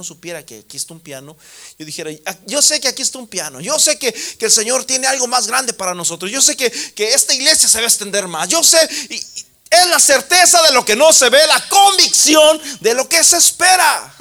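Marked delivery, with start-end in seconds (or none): 2.3-14.1 loud, high fervent sermon; full-force preaching. Acted. Preacher urging the congregation to practise faith, full-force preaching. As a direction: preach it out to the whole church.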